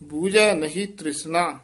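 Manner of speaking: ਬੂਝੈ said light and loose, not pressed; soft ਬੂਝੈ. Shown as a demonstration. Teacher shows ਬੂਝੈ spoken loosely, not pressed. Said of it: "ਬੂਝੈ ਕੱਸ ਕੇ ਨਹੀਂ ਬੋਲਣਾ".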